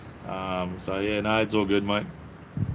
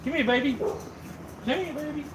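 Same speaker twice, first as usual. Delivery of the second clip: talking to the dogs; 7 semitones higher than usual. Real, not acted. Man coaxes his dogs Angel and Mia to say hello, high cooing baby talk. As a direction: coo at the puppies like babies.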